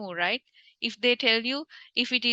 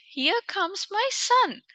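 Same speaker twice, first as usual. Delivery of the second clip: mock sad father; 8 semitones higher, slower than usual. Teacher voices father to king.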